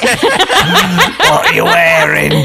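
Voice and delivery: slow, laughing seductive voice; sexy voice. Pretend. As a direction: purr it out slowly. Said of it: "your sort of sexy voice".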